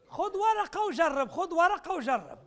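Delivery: slow, deliberate, leaning on ورقة, as if pressing the room; slow emphatic urging. Real, not acted. Lecturer urging audience to grab paper and try, slow and emphatic. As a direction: spell it out slowly so everyone takes paper.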